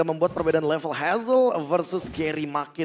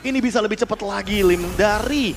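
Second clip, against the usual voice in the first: esports caster; 5 semitones higher, 5 dB louder than usual. Real, not acted. Caster hyping Lord fight.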